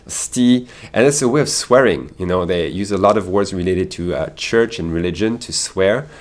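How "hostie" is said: "sti" as one syllable, higher; fast Canadian pronunciation. Shown as a demonstration. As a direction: hostie cut down to "sti". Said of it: "the way Canadians pronounce it".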